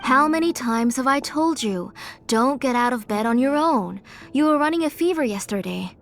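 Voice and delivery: firm, worried telling-off; scolding. Acted. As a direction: scold her gently but firmly. Aunt scolds sick child out of bed.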